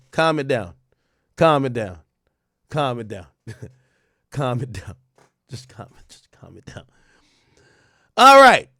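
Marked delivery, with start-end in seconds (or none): 0.1-6.8 each calm it down softer until whispered; fading to a whisper. Real, not acted. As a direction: shush them down to a whisper.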